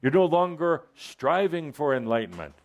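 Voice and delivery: voice of wisdom. Acted. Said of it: "it comes in and says".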